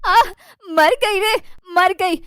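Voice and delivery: mock shriek of horror with a cry; hammed-up scream at a rat; mother-in-law shrieks at the rat in the mixer; yelling in disgust. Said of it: "वो जोर-जोर से चिल्लाने लगती है".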